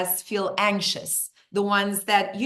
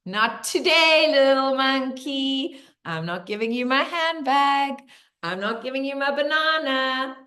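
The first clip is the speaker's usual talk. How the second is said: playful defiance; 4 semitones higher, 3 dB louder than usual. Acted. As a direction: tease the little monkey as you turn it down. Playfully defying the imagined monkey.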